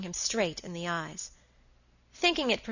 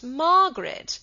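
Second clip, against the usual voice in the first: high, loud exclamation of the name; loud rebuke; 7 semitones higher, 8 dB louder, slower than usual. A narrator's reading. Henry rebukes his defiant wife, loudly. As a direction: cut in with a sharp rise in volume.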